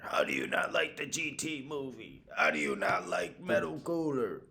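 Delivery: high, slow, indignant whine of a superfan; mock outraged fan. Imagined fan defending the movie, indignant whine. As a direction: whine it like a fan who can't believe it. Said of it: "one person out there".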